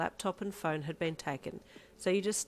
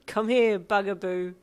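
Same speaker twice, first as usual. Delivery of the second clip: chuckling welcome; 4 semitones higher, 11 dB louder, slower than usual. Acted. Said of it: "with a chuckle".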